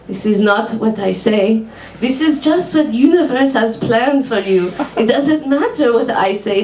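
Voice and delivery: put-on lightly Hebrew-accented psychic, businesslike. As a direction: ask calmly, Hebrew accent. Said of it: "I've never done a Hebrew accent".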